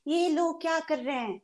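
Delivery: high, fast, hammed-up whining; fake crying rant. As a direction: wail it like a melodramatic victim. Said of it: "cry and scream and do whatever".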